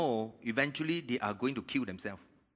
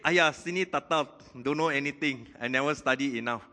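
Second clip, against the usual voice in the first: mock complaining student; 2 semitones higher, 5 dB louder than usual. Preacher imitating a fretful believer, mock whine. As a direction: whine like someone who never studied. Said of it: "Even you say".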